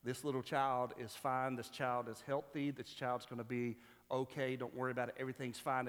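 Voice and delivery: lightly voiced soothing reassurance; calm her gently, as a storyteller voicing a doctor; comforting doctor. Doctor comforts a distraught mother, mildly reassuring. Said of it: "tries to comfort her".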